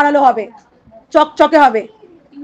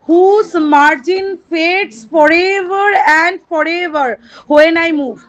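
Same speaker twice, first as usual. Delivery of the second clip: each word stretched out like verse; slow poem recitation; much slower than usual. Shown as a demonstration. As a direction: recite the line very slowly to the class.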